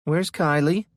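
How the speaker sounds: high, loud panicked question. A narrator's reading. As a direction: fear breaking through. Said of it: "Panic laced her voice".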